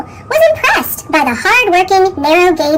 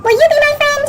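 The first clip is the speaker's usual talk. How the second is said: much higher, hopeful plea; hopeful little engine; 10 semitones higher, faster than usual. A narrator's reading. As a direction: ask shyly, hoping for a yes. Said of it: "he said".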